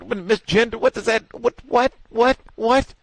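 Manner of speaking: high, loud stunned what-what; can't believe what he's hearing, voice climbing; incredulous outburst. Real, not acted. Outraged disbelief at accusation.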